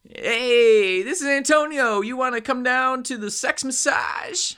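high, loud, hammed-up bad Hispanic accent. The scammer posing as Antonio, in a bad Hispanic accent. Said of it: "Hispanic type of accent".

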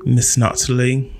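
measured mock British accent. Host inviting the co-host's last word, mock British accent. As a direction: put on a light, proper British accent. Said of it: "there goes the British accent".

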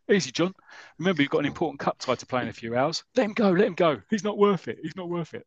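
high, loud London bloke pleading; London accent. Retold or imitated. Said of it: "so my London accent there".

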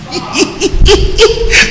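high airy laugh; breathy laugh. Real, not acted. Preacher laughing with the congregation, airy laugh. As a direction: let out a light laugh.

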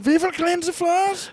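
robot voice. Pretend. Roomba voice bit.

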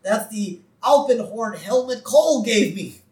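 high, loud alarmed scolding; startled George Bush. Acted. Woken man scolds boy holding his horn, startled. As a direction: exclaim as if jolted awake by a horn. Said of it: "we see George Bush wake up".

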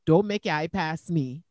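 lightly voiced Guyanese accent; a touch of Guyanese mother's accent. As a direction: slip briefly into a scolding Guyanese mum. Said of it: "I can talk like a Guyanese".

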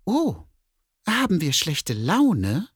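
mock the bear's bad mood as a cat; teasing cat. Cat teases the grumpy bear, high and sing-song. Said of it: "wollte die Katze wissen".

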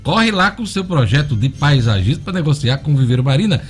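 upbeat live radio ad read; hard sell ad. Acted. Host reads live sponsor ad.

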